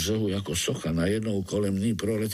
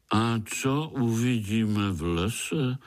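slow, sulky question; a touch of grumbling old spider; grumpy old spider; slower than usual. Acted. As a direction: ask it like a peeved old grump. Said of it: "zeptal se rozmrzele starý pavouk".

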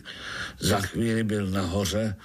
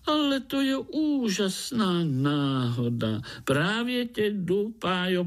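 very high, gushing, bubbly chatter; chattering frog; 6 semitones higher than usual. A narrator's reading. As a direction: Prague tree frog babbling nonstop. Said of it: "brebentila pražská rosnička". (švitořivá vysoká rosnička)

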